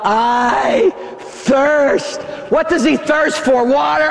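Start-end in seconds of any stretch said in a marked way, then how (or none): 0.0-2.2 Jesus crying out from the cross. Acted. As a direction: call out I thirst from the cross. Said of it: "cries out".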